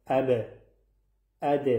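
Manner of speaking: اب and اد with a bounce released on the final consonant; bounced final b and d in اب، اد; qalqala bounce. Shown as a demonstration. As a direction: echo the last letter of اب and اد with a small jolt. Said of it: "قلقله یعنی".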